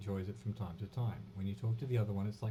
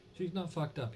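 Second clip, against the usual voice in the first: raised voice; 7 semitones higher than usual. Acted. Kuno defending the girl to the detective, raising his voice. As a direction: pitch jumps up on "not". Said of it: "he raises his voice".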